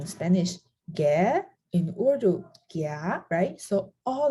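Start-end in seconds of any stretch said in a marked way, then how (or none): 0.9-1.4 "qué" sliding up into a question; rising question tone. Shown as a demonstration. Teacher giving a Spanish example, "qué" with questioning rise. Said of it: "you always ask with the rising tone". 2.7-3.2 "qué" lifting upward as a question; rising question tone. Shown as a demonstration. Teacher giving an Urdu example, "qué" with questioning rise. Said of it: "you always ask with the rising tone".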